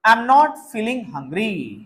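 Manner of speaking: very slow, every word laid out for copying; the whole sentence spoken once at slow dictation pace. Shown as a demonstration. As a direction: dictate it slowly to the class.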